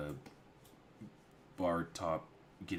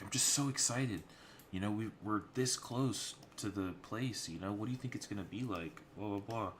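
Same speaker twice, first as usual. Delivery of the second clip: excited younger sister; 4 semitones higher than usual. Retold or imitated.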